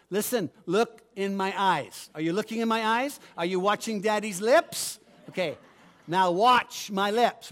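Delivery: lightly voiced dad making his kid focus; stern father. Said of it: "I says to kids".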